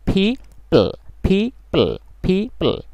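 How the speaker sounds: ফিপল: first ফ aspirated, then plain প; aspirated p demo. Shown as a demonstration. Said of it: "অর্থাৎ প্রথমটা ফ, পরেরটা প".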